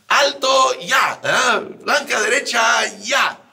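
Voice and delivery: barked orders, high and loud; shouted military command. Retold or imitated. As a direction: yell it like a drill sergeant. Sargento dando órdenes en la guerra. (orden militar gritada, aguda y fuerte)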